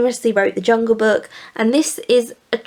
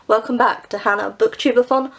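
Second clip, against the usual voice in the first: chipper; 3 semitones higher, slower than usual. Real, not acted. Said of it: "so chipper".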